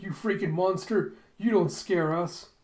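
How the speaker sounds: defiant yell. Retold or imitated. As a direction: shout defiance at a monster. Acted hunter defying a monster.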